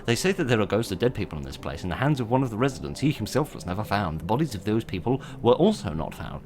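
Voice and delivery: quick, run-on reading of intro text; hurried reading. Real, not acted. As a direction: read it out briskly to beat the timer. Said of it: "very special effort to talk faster".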